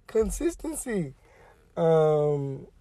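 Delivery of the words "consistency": mock proud. Real, not acted.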